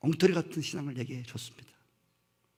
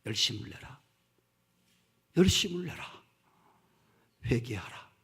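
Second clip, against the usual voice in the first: gentle repeated exhortation; 6 semitones lower than usual. Shown as a demonstration. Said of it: "책망의 말씀".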